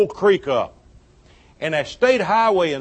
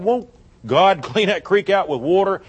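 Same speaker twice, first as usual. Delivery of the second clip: laughing. Retold or imitated. Laughs while quoting himself.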